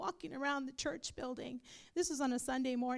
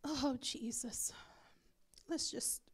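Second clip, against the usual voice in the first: whispered; 2 semitones lower, 6 dB quieter than usual. Real, not acted. Pastor quietly turning the room to prayer. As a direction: drop to a hush before praying.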